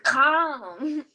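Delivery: urgent hushed whisper. Acted. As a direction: whisper it, don't draw attention. Hushing panicking friend.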